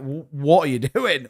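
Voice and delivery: incredulous question broken by a laugh; laughing disbelief. Retold or imitated. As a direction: ask it while laughing. Baffled quote, first take.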